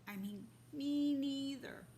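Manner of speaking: a timid little mouse chiming in; tiny little voice. Acted. Mouse chiming in with the boars, tiny voice. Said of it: "said a tiny little voice".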